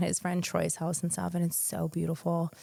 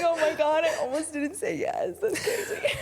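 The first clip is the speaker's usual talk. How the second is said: high-pitched, laughing retold exclamation; laughing disbelief; 9 semitones higher than usual. Fiancée joking she almost didn't say yes, laughing disbelief. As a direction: squeal it through laughter.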